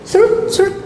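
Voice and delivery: high, quick serut serut; mock licking sound. Preacher imitates a lizard licking the child's eyes. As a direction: mimic a lizard's tongue flicking.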